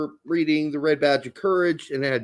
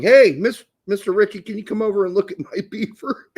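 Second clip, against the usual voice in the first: youths calling teacher; 3 semitones higher, 4 dB louder than usual. Retold or imitated. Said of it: "you got people going".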